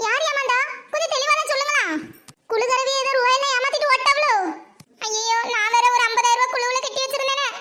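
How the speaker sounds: panicking about her lost savings; high, anxious rush of questions; alarmed panic. Acted. Panics over her chit fund money.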